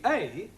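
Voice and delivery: A as the letter's name, "ay"; long A. Shown as a demonstration. Teacher showing students the first sound, long A. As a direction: say A to rhyme with day. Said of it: "pronounced in three different ways".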